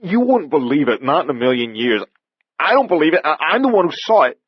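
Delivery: embarrassed but still scared stiff; sheepish and frightened. Acted. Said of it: "sheepish, yet still frightened".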